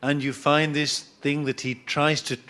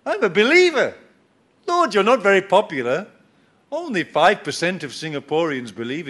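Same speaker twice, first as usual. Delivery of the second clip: higher, self-satisfied pleading voice; smug believer; 3 semitones higher than usual. Retold or imitated. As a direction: fish for praise from God. Smug believer addressing God.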